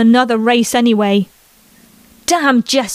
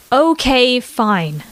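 grumbling; much slower than usual. Acted. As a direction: grudgingly give in, still half asleep. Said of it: "Becca grumbled".

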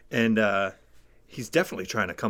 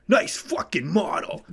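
imitating a shout; 7 semitones higher, 5 dB louder than usual. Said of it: "drops a hard F-bomb".

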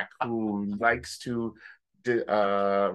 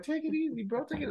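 much higher, softer put-on voice; mock calming; 5 dB quieter, faster than usual. Drunk friend telling the groom to relax, high mock voice. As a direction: soothe him in a silly high voice. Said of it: "I'm like".

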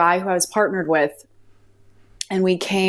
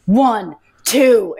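angry counting; 4 semitones higher, 5 dB louder than usual. Retold or imitated. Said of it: "I was so angry".

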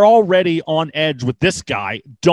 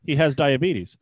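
understated, deadpan statement; retold matter-of-fact answer; 2 semitones lower, 3 dB quieter than usual. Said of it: "matter of factly".

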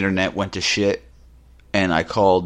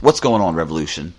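louder, punchy host greeting to open the show; radio show opener; 2 semitones lower, 5 dB louder than usual. Shown as a demonstration. Host greeting his listeners at the start of the show, louder and punchy. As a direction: hype it like a podcast host kicking off an episode. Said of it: "That's how I used to start the show".

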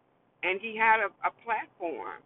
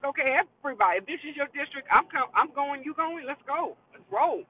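imagined candidate rallying the district, pitched up; rallying call; 6 semitones higher than usual. Pretend. Candidate calling everybody in the district to roll, rallying. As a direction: round everybody up to head out.

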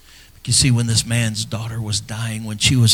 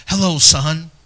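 friendly greeting; 5 semitones higher, slower than usual. Retold or imitated. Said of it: "His voice was like".

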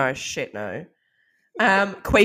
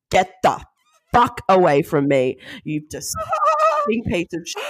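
retold angry outburst; 3 semitones higher than usual. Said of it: "I was so angry".

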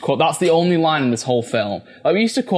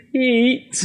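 calling Pete; 9 semitones higher than usual. Retold or imitated. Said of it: "he's just going".

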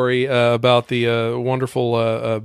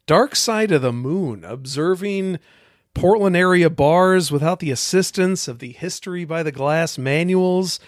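eager audition; slower than usual. Acted. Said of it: "This is your worst reading of all time".

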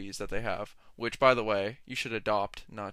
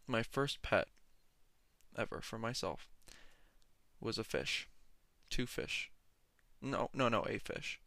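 mock gloomy monotone; 6 dB quieter than usual. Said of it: "my voice has gone a little bit monotone".

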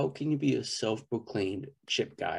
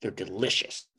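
emphatic, mildly heated food rant; angry-sounding rant. Real, not acted. Podcaster defending kettle chips to cohosts, sounding angry. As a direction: insist on it as if mad at someone. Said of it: "why do you sound so angry?".

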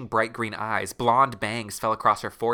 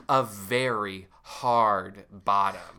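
slow low Justin voice; 4 semitones lower, much slower than usual. Acted. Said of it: "he says out loud".

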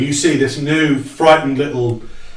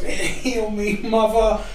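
healing plea; 6 semitones higher, 5 dB quieter, slower than usual. Acted. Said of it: "and just goes".

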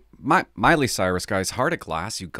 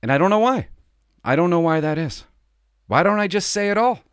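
higher, louder, pained questioning; emotional outburst; 8 semitones higher, 6 dB louder than usual. Real, not acted. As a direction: burst out in frustration. Emotional outburst about protecting offenders.

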